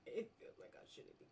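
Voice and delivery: breathless giggly words; can't stop cracking up; laughing through words. Real, not acted. Gamer laughs guiltily about the stag. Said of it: "shouldn't be laughing".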